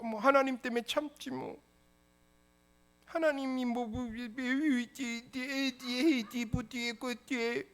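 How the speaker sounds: high, fading mock grumble; mocking mumble. A believer who swallows their words, mocked with high trailing mumbles.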